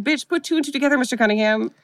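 high, sassy mock retort; exasperated.

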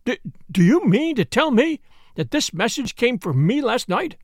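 aghast and incredulous; horrified disbelief. Acted. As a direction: stumble into the question, appalled. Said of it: "then horror".

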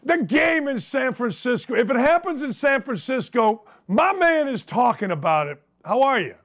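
lonely late night radio host; crackly radio dj voice. Acted. Late night show intro.

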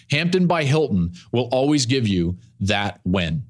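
upbeat host-read sponsor spot; smooth podcast ad voice. Acted. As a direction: sell the hotel like a friendly host.

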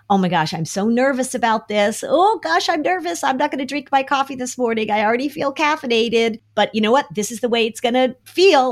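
high, fast jittery self-talk that settles; nervous but coping. Shown as a demonstration. Parent modeling nerves to kids, jittery then calm. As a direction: flutter with nerves, then steady yourself. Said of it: "You say to your kids".

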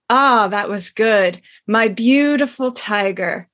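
reading a steamy novel scene aloud, lightly dramatic; story reading. Acted. Host reads a racy book scene to listeners, lightly dramatic. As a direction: give the old romance its due, savouring each line.

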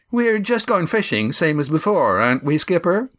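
high, whiny questioning; querulous. A narrator's reading. Crewman fretting to the skipper, querulous. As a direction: fret at the skipper. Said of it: "Yan's voice became querulous".

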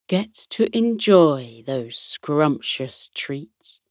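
slow, calming bear captain, lightly voiced; Captain Fluffy Ears. Teddy bear captain explaining the hamper puzzle, deep and calming. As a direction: savour the story unhurriedly, deep and soothing. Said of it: "In a deep, calming voice".

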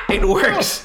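put-on high, loud girly squeal; woman impression. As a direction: squeal it like a delighted shopper. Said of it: "Is that your woman impression?".

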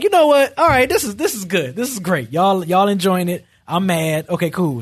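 mock calm while mad. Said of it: "I've been mad where I'm like".

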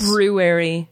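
"February" with both Rs, feb-roo-ary; careful correct pronunciation. Shown as a demonstration. Practising a word really hard to say, careful pronunciation. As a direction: sound the R after the B in "February". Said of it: "That's really hard to say".

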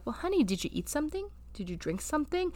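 soft, gently caring questions; kind teacher. Acted. Teacher talking to a student about eating and drinking, gentle. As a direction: check on a student softly and kindly. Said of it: "like, a teacher talking to a student".

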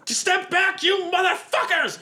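shrieking threat at the crew; furious shout. Acted. NPC threatens party with gun.

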